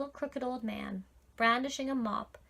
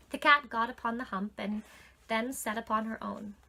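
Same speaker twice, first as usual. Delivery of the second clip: usual speaking voice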